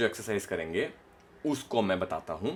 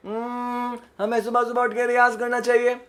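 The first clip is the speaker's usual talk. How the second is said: the line sung much higher and louder, at the top; high register; 12 semitones higher, 4 dB louder than usual. Shown as a demonstration. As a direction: push it up to the top note. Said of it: "ऊपर का".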